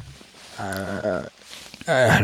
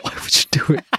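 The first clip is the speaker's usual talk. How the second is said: whispering. Real, not acted. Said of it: "unvoiced whisper".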